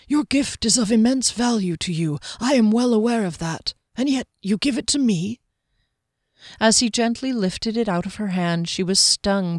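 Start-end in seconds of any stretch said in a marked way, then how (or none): 0.1-5.4 lightly voiced swordsman, humbled and grateful; a touch of wonder, pitched slightly up; moved, grateful Soren. Swordsman to the giver of a treasured gift, gently moved.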